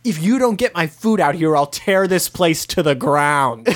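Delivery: retold threat, slowing towards the end; mild mock scream. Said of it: "he's immediately screaming at the owner".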